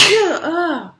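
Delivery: sudden loud sneeze; sneezing. Real, not acted. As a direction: sneeze then gasp oh. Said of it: "And I sneezed into my hands".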